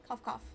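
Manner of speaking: saying cough, cough; words cough, cough, said aloud; spoken cough. Acted. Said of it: "spice stuck in my throat".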